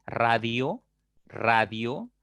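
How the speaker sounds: "radio" in two slow parts, rising on "dio"; slow pronunciation demo. Shown as a demonstration. Teacher giving an I-O example, "radio" drawn out. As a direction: say "radio" slowly, lifting the IO. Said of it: "con la unión de I O".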